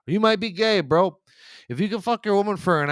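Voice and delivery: high, loud jab, landing the joke; loud punchline. Real, not acted. Comic yells the punchline at the bragging husbands.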